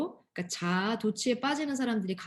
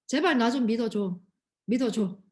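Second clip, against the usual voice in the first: pleading; 5 dB louder than usual. Pretend. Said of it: "그게 바로 의인이다."라고 얘기하는 거예요".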